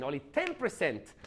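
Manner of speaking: "ten percent" punched, then a slight break; stress on TEN PERCENT. Shown as a demonstration. Trainer showing how to highlight a figure, stress on "ten percent". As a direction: hit "ten percent" so it sticks. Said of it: "how I say ten percent".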